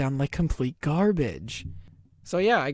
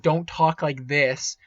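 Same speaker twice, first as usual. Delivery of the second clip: slow, louder, mouth right on the mic; talking right on the mic; 4 dB louder, slower than usual. Shown as a demonstration. Showing viewers the wrong way to use the mic, slow and louder. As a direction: show how not to speak into it. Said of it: "Don't talk right on".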